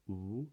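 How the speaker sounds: "Ooh" held with very rounded lips. Shown as a demonstration. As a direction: sound "Ooh" through a tightly rounded mouth. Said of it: "the lips are very rounded".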